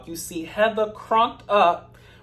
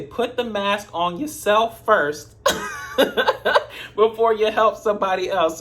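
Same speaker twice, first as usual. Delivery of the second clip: laughing quote; 3 semitones higher than usual. Retold or imitated. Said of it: "they say".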